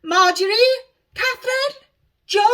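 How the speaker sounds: high, loud street-hawker cries; yelling names. A narrator's reading. Honesty yells guesses at Alice's name like a hawker. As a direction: cry names like a market seller. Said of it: "yelling names as if she were selling them".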